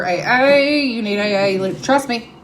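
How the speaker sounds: lightly voiced door-to-door preacher; a hint of hammed-up evangelist; pushy evangelist. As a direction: play at urgently recruiting a stranger. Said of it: "evangelist knocking on people's door".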